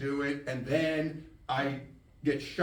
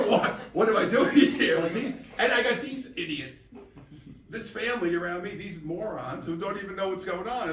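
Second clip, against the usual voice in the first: laughing mock rant; 5 semitones higher, 4 dB louder than usual. Ranting about family as a newborn.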